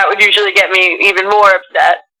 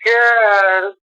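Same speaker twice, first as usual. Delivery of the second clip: cooing to a dog; slower than usual. Real, not acted.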